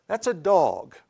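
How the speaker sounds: "dog" with an AW vowel, spelled D-A-W-G; regional "dawg". Shown as a demonstration. Preacher giving his hometown word to the congregation, "dog" said "dawg". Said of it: "D A W G S is how that is pronounced".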